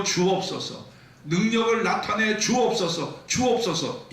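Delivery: high, ringing prophet's prayer; Elijah's fervent prayer. Acted. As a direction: cry out to God to show his power. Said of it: "하나님께 기도합니다".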